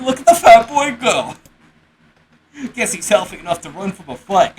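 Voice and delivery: put-on old woman voice. Crone mocks the fleeing boy.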